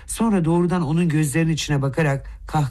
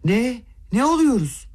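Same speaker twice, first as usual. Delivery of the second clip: much higher, shrill-edged shocked cry; horrified cry; 9 semitones higher than usual. A narrator's reading. Lizaveta cries out in shocked disbelief at the prince. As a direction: gasp it out in disbelief. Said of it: "dehşetle haykırdı birden".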